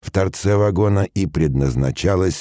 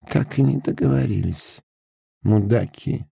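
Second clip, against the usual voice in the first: lightly voiced captain, a touch higher; muttering; 8 semitones higher than usual. A narrator's reading. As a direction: grumble it under the breath. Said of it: "пробормотал стоящий на подножке Пак".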